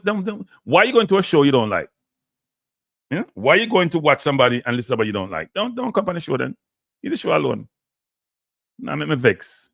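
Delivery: irritated rant with rising pitch; annoyed, vexed. Real, not acted. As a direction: tell them off, really fed up. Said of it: "I'm getting annoyed".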